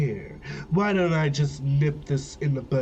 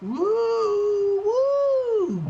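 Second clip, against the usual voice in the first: much higher, ghostly woo; haunting spirit hooting; creepy disembodied voice. Acted. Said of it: "I should be a creepy, disembodied voice".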